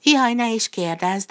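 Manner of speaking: fussing yet proud cow; a bit uneasy but proud. A narrator's reading. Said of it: "kissé nyugtalanul, de büszkén". (kissé nyugtalan, de büszke, lassan)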